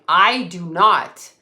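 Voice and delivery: "I do not" slow and loud; firm, slow punch on "I do not"; emphatic denial. Retold or imitated. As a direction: spell out "I do not", word by word. Retold argument with the insurer.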